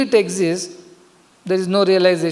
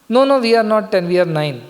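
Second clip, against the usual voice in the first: insistent correction; 3 semitones higher, faster than usual. Acted. Students correct the guru about their number, insistent correction. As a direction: act out students hurriedly setting the guru straight. Students protest in acted story.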